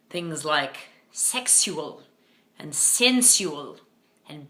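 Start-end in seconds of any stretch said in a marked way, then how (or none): 1.1-2.0 drawn-out mock upper-class British on "sexual"; milk the liquid U in "sexual", British style; upper-class British accent. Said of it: "upper-class British accent". 2.7-3.8 drawn-out mock upper-class British on "sensual"; milk the liquid U in "sensual", British style; upper-class British accent. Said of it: "milk that liquid U".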